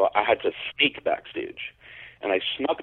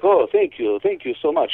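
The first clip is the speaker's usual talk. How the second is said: imitating soft-spoken Robert; 4 semitones higher than usual. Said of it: "he's so soft spoken and, and just friendly".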